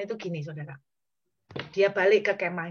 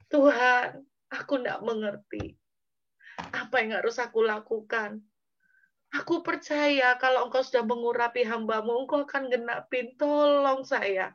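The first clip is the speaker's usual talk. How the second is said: acted tearful plea; 3 semitones higher than usual. Preacher as weary David waking to pray, pleading. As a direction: beg God for help, a touch of tears.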